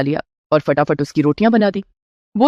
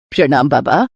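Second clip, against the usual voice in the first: put-on lower, reverent older woman; bowing to a holy man; respectful greeting; 6 semitones lower than usual. Mother-in-law greets the sage respectfully, lower voice.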